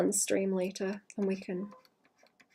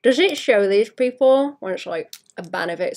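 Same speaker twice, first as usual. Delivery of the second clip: pen in mouth; 3 dB louder than usual. Real, not acted. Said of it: "I shouldn't talk with pen in my mouth".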